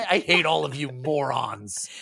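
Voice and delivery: lightly whined insult; pitched slightly up, mock disgust; ungrateful Clip. Clip scorns his rescuers, mildly whiny. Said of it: "And Clip's like".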